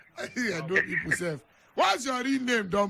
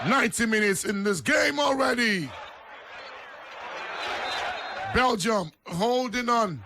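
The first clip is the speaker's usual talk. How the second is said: excited play-by-play with laughter in it; live match call. Acted. Radio host updating listeners on the closing minutes, excited.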